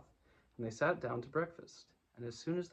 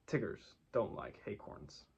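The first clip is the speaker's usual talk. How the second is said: slow, lower, quieter firm verdict; firmly; 4 semitones lower, 4 dB quieter, slower than usual. Acted. Tigger telling Pooh and Piglet his firm verdict, slowly. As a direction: lay it down, no debate. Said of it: "he said firmly".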